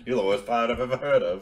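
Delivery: movie quote in a mock British accent; amused British pirate-film impression. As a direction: put on a British accent through a laugh. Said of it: "is that a British accent?".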